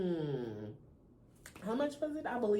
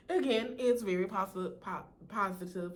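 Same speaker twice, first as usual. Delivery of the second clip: with braces. Real, not acted. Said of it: "it's the lisp".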